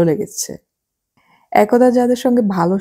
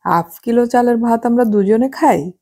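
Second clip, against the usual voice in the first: incredulous question; 6 semitones higher than usual. Acted. Husband disbelieves rice amount.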